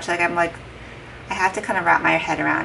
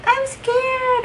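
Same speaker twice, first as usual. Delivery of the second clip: mock scared. Telling husband she's scared.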